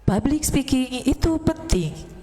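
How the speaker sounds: full diaphragm voice, slow; chest voice. Shown as a demonstration. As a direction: speak from the diaphragm, nose held. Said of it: "kalau kita pakai suara dada atau diafragma".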